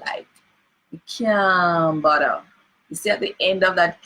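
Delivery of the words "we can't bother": "can't" said nasal, as "kam", slowly. Shown as a demonstration. Teacher demonstrating Jamaican nasal endings. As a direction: let "can't" end in a nasal hum. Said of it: "we do a little nasalization".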